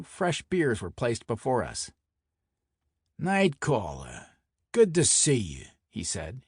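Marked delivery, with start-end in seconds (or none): 3.2-5.6 lightly voiced Brooklyn mobster; mild Brooklyn tough-guy greeting; thick Brooklyn accent. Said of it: "in his thick Brooklyn accent".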